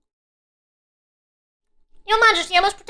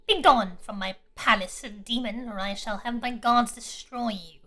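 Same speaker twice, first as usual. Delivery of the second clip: royal command; 8 semitones lower, 6 dB quieter, slower than usual. Acted. Queen repeats her command.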